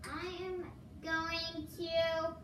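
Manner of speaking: slow, even robot voice. Acted. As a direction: talk like a robot, slowly. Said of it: "I'm doing my robot voice".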